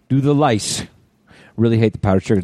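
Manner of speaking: hint of a movie character; movie line delivery. Shown as a demonstration. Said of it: "that's a line from Super Troopers".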